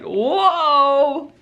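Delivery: high, drawn-out whoa; imitated surprise. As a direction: mimic a taken-aback boss. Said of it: "And she was like".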